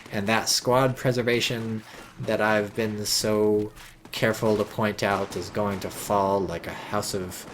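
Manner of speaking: ordinary talk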